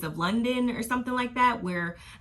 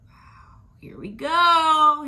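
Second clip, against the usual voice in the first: whisper; 10 semitones higher, 9 dB louder, much slower than usual. Pretend. Mock reaction to the drama.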